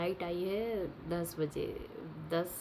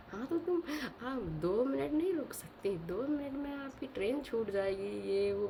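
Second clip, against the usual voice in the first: higher-pitched mock scolding, imitating the brother; mock angry lecture; 6 semitones higher than usual. Sister imitates her brother scolding her over the train, mock angry and higher. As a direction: play the annoyed little brother ranting, pitched up. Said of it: "उसने बहुत सारा lecture दिया".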